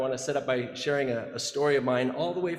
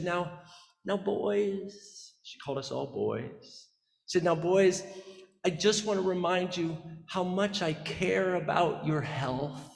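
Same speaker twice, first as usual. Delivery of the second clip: sheepish apologetic mom; 3 semitones higher, slower than usual. Retold or imitated. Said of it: "talking like this apologetic voice, this sort of sheepish voice".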